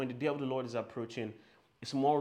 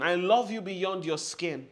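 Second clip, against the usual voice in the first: loud declaration; 4 semitones higher, 5 dB louder than usual. Shown as a demonstration. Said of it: "I'm gonna say this again".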